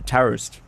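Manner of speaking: "toast" with an Aussie gliding vowel; Australian pronunciation. Shown as a demonstration. Cohost passing on a trainer's tip, Australian pronunciation of "toast". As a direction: bend "toast" into "taoost", Australian style. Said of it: "That's how you speak Australian".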